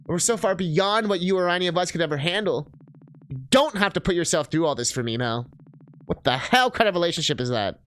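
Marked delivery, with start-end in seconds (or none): 3.3-7.8 heated, emphatic protest; raised voice. Acted. Partner protests to Mel about their relationship, voice raised. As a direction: raise your voice in frustration, without shouting. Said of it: "I'm sorry for raising my voice".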